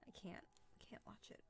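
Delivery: hushed, voiceless shudder; soft, squeamish refusal; creeped-out recoil. Real, not acted. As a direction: let it sink to a near-whisper of dread. Recoils from remembered scary film.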